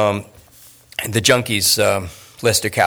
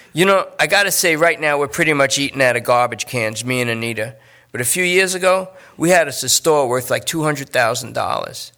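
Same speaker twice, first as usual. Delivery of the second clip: slightly raised, whiny pleading junkie; a nervous addict talking his way out; junkie Lester; 3 semitones higher than usual. Acted. Lester brags about old store.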